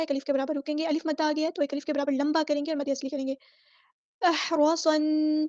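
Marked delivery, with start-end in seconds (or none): 4.2-5.5 احرصن drawn out with a heavy, full ص; very slow chant of احرصن; tajweed recitation. Shown as a demonstration. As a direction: stretch احرصن very slowly. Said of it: "یہ رکنا، نا".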